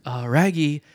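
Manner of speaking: light Scooby-Doo growl on Raggy. Acted. Scooby pleading with Shaggy to listen. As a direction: talk like the cartoon dog. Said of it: "Scooby's trying to be like".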